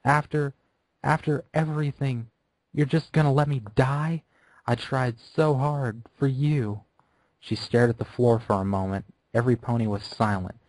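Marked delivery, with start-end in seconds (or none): 0.0-6.8 high, broken sobbing plea; halting, crying reproach; high halting tearful plea; tearful pleading. Acted. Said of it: "crying and the shouting".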